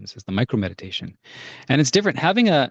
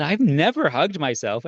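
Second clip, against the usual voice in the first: put-on old woman; 6 semitones higher, slower than usual. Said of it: "this old woman knocks on my door".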